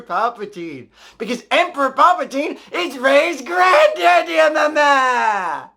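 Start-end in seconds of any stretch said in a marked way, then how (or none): 1.2-5.7 excited shout. Real, not acted. Reveals plot twist.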